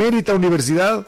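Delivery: benemérita universidad said fast, pitched a bit high; quick mocking benemérita; mock enunciation. Shown as a demonstration. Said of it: "¿nunca oíste la palabra benemérito?".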